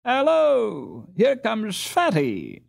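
put-on high, loud boyish cry of greeting; excited exclamation. A narrator's reading. Karl spotting Fatty across the ice, excited shout. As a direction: call out eagerly, spotting a friend. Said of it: "exclaimed Karl".

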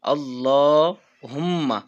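আল্লাহুম্মা chanted slowly, the long vowel stretched and held; slow drawn-out recitation. Shown as a demonstration. Teacher chanting the dua for students, slow and drawn. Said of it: "সেটা হলো এটা".

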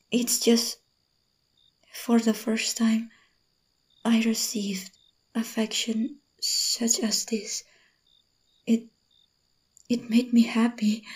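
soft, almost whispered, moved; tender confession. Acted. Admitting his affection made her happy, soft confession. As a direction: confess it gently.

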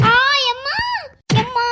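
whimpering mock pain cries of a pretending child; fake pained cry.

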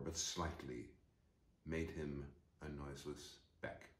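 measured story reading with deliberate pauses; literary narration. A narrator's reading. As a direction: read it phrase by phrase, pausing between. Reads the novel aloud.

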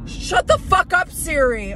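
high loud snap at the phone; annoyed outburst. Real, not acted. Vlogger snapping at Siri interrupting her, loud. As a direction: cut Siri off, exasperated.

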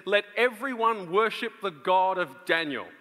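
ordinary talk, nothing marked

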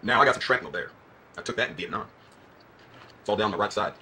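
put-on hammy Southern accent. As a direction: play a Southern good old boy. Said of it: "putting on a Southern accent".

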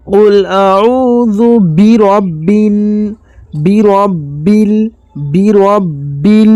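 drawn-out tajweed chant, slow; slow Quran recitation. Shown as a demonstration. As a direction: recite each word slowly and clearly. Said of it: "এখানে অনেকজন পড়ি". (ধীরে কুরআন তিলাওয়াত)

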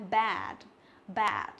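"bad" with a flat, open æ; mouth spread wide. Shown as a demonstration. Teacher shows the mouth shape to students, open "bad". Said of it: "miệng của chúng ta bẹt ra".

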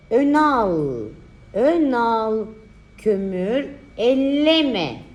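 slow, drawn-out dictation; dictating. Shown as a demonstration. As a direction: read each word slowly for writing. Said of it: "dikte çalışması".

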